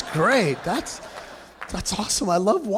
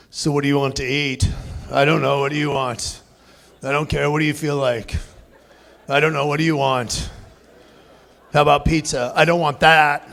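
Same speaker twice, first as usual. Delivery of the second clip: lower, dragging back-and-forth of a couple; bickering couple; 5 semitones lower, 3 dB louder than usual. Retold or imitated. Couple in the car deciding where to eat, bickering. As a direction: lightly play two people who can't decide. Acted car conversation with spouse.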